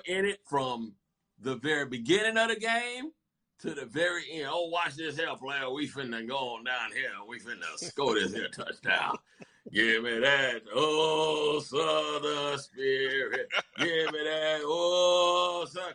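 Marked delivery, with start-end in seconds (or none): 4.5-15.9 lightly voiced rowdy fan bragging, a touch slower on Southern spirit; rival fan hype. Visiting fan boasting to the home crowd, light mock bravado. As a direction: cheer your team on like a cocky fan in the stands. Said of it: "fans were just like".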